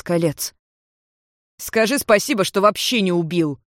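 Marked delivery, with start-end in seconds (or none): 1.6-3.6 lightly voiced angry rival; spat out. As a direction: snarl it at him with disdain. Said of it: "выплюнул Валифор".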